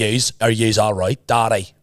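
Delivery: a hint of a northern Irish accent, slow. Shown as a demonstration. Teller demonstrates northern Irish speech. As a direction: lean into yous in northern Irish. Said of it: "Like that".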